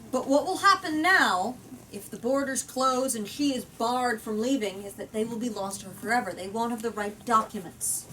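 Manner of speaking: reading the novel aloud to the group; measured storyteller read; story narration. A narrator's reading. Reading a book-club chapter aloud, story narration.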